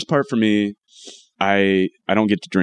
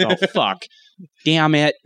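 high, mock-whiny dismay; acted disappointment in a thin, high voice; normal voice returned; 8 semitones higher than usual. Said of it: "Now I sound like me again".

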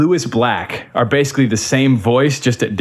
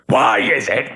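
the same line pitched down like Lewis Black; the deeper version of the screech. Shown as a demonstration. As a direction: lower comic rant voice. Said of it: "Lewis Black was lower".

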